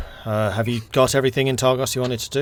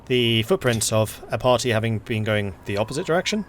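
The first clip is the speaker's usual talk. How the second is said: game master narration; 4 dB louder than usual. Acted. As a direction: paint the snowy road calmly. GM narrates the journey.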